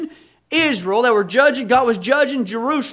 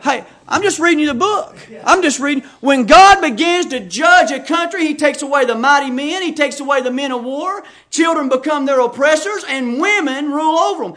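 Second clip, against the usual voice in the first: higher, louder insistent pulpit delivery; emphatic preaching; 4 semitones higher, 4 dB louder than usual. Real, not acted. Preacher insists he is just reading the book, emphatically. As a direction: press each phrase home, voice raised.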